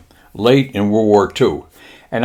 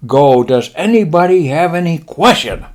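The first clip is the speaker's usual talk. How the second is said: lightly voiced Japanese admiral, pitched up; slight put-on Japanese accent, higher voice; 4 semitones higher than usual. Admiral promising pilots leave, light mock-Japanese voice. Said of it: "he says".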